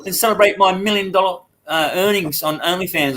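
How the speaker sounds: high, quick sing-song invite; mock daughter. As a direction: put on a chirpy high girl voice. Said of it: "she invited her mum and dad".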